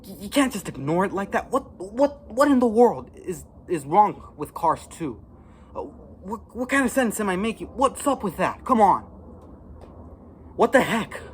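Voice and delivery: high, loud exasperated yelling; outraged. Real, not acted. Fan yelling at the movie's makers, outraged. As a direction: demand answers in disbelief. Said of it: "It just makes me so angry".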